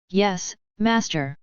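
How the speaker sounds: slow, even machine voice; mechanical voice. Acted. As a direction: answer like a neutral computer. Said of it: "A neutral mechanical sound sounded".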